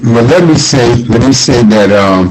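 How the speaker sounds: glitchy robotic voice over a bad connection; choppy, staticky robot voice. Real, not acted. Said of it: "You have robot voice".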